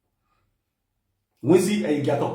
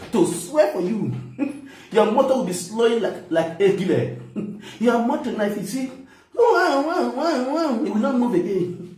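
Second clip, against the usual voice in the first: laughing threat; 4 semitones higher than usual. Real, not acted. Mocking threat while laughing.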